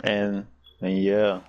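slow, drained and lax; tired voice. Real, not acted. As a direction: drag the words out, worn out. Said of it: "you sound tired as hell".

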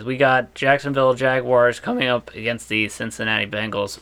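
a sudden squeaky crack mid-sentence. Real, not acted. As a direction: voice cracks on one word. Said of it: "My voice just cracked".

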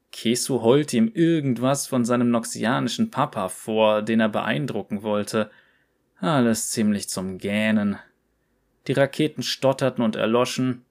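lively storyteller reading a cocky character's tale; story narration. A narrator's reading. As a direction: read it like a cheeky yordle telling his own adventure. Liest Rumbles Geschichte vor. (lebhaftes Vorlesen einer Geschichte)

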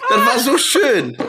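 high, loud laughing delivery. Real, not acted. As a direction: gasp it out through laughter. Laughing fit. (laut lachend)

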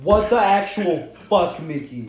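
loud, high, drawn-out astonishment; real disbelief. Real, not acted. Friend reacts to his buddy's admission, loudly incredulous. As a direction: stretch the words out in appalled amusement.

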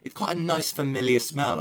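lightly voiced girl. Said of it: "was always like".

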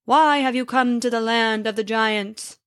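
big giant voice from inside the castle; booming giant voice. Acted. Hidden giant challenges the visitors with a booming voice. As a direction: call out like an unseen giant. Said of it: "said a booming voice from within".

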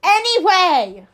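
loud, high, drawn-out shout; exasperated segue. Real, not acted. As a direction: sing out over the tangent to end it. Cuts off the tangent.

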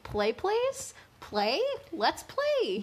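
put-on high, pleading child voice; eager little kid. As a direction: beg to play like a small boy. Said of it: "he's like".

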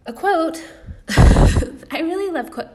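high, loud, giddy squeal with laughter; giddy laughing. Real, not acted. Giddy outburst about a quote.

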